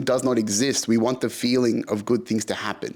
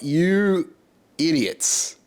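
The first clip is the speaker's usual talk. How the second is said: retold angry rant; 2 semitones higher than usual. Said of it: "And I was livid".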